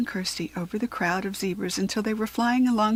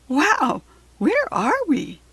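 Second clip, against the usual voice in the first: higher, slow, wondering; amazed wow; 6 semitones higher, 4 dB louder, slower than usual. A narrator's reading. Girl landing on the plain, amazed. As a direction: gasp at a new place.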